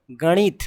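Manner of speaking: गणित with a retroflex ण. Shown as a demonstration. Teacher showing learners how to read it, retroflex N. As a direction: say गणित with the tongue curled for ण. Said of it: "कैसे पढ़ेंगे".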